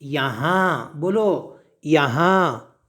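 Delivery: यहाँ with the final vowel through the nose; nasal ending. Shown as a demonstration. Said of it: "नून गुन्ने की आवाज़ नाक में से आती है".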